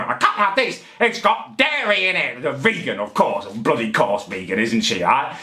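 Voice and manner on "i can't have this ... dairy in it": mock moaning shopper. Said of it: "having a proper moan".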